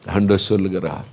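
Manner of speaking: ordinary delivery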